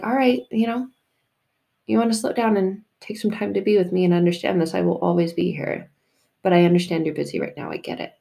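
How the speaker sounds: patient and understated; gentle, no passive aggression. Acted. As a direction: let them off kindly, without blame. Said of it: "doesn't say it with any passive aggressiveness".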